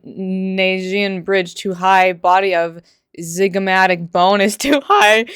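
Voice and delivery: mock clinical critic. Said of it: "mock clinical list of critics".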